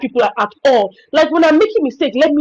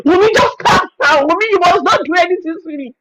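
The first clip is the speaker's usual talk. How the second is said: husband calming; 5 semitones higher than usual. Retold or imitated. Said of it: "my husband will say".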